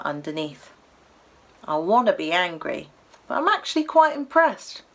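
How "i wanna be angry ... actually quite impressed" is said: impressed Cockney. Acted. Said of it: "the llama remarked".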